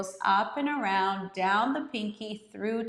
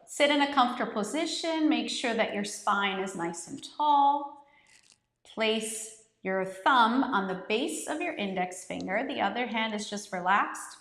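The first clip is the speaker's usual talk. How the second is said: guided meditation. Acted. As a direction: lead the class gently into the breath. Leads the guided breathing.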